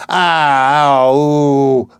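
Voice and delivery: high, loud Cockney "Ow!"; a pleased, surprised "Ow!" at the coin; delighted "Ow". Acted. Flower girl finding a half crown in her basket, surprised "Ow!". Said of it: "Picking up several coins".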